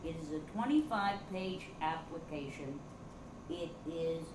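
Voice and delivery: raspy smoker's voice. Real, not acted. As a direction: sound like a heavy smoker. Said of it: "your voice just got suddenly higher ... you sound like a smoker now".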